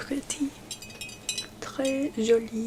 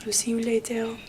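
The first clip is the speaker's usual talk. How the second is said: whispered queen roleplay; 3 dB louder than usual. Acted. Queen whispers to her visitor in a haughty roleplay. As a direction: play the queen dismissing a visitor, hushed.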